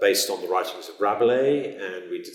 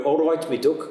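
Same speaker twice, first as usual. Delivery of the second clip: higher, sing-song East Midlands greeting; Derby accent; 7 semitones higher than usual. Shown as a demonstration. Teacher showing how Derby folk say hello, Derby accent. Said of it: "Derby, you go".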